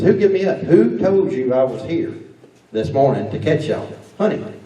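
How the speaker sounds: a warden retold as mad, caught out; mad, demanding. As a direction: press him like a mad warden. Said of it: "he was mad".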